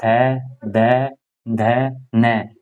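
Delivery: reciting थै दै धै नै slowly, one by one; slow teacher chant of the letter row; slow recitation. Shown as a demonstration. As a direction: count the letters out for students. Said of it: "अब मैं अगर आपको लिखूं".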